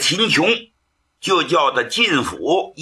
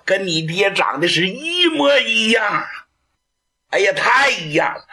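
excited exclaiming; 5 semitones higher than usual. Acted. Prince marvels at resemblance.

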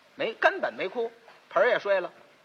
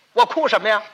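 indignant retort; 6 dB louder than usual. Acted. Second master bristles at question.

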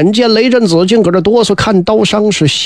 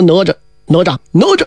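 calling out, acted; 2 semitones lower, faster than usual. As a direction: call the name, pitching the last one up. Ziya calls the unresponsive Nezha.

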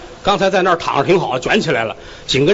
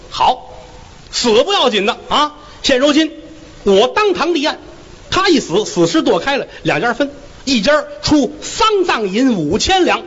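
a slightly raised, officious magistrate's voice; court magistrate; 6 semitones higher than usual. Acted. Magistrate warning the onlookers in the courtroom, officious voice. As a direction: lay down the rules from the bench.

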